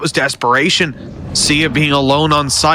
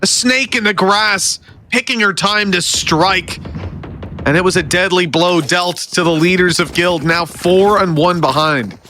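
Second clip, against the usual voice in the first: high, shouted hype commentary; esports caster; 7 semitones higher than usual. Real, not acted. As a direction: sell the round-winning clutch. Final seconds called live.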